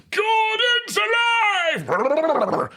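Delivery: very high, drawn-out theatrical screech; Brian Blessed. Shown as a demonstration. Voice actor showing off his impression, screeching bellow. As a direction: roar it out long and hugely hammed-up. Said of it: "the man who screeches".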